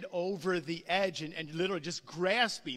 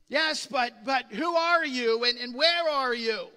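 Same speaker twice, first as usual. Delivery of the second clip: calling up; 3 semitones higher, 8 dB louder than usual. Retold or imitated. Jack calling up.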